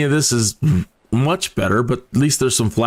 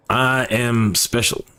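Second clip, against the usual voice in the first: little sensor voice; much slower than usual. Acted. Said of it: "my little friend down here".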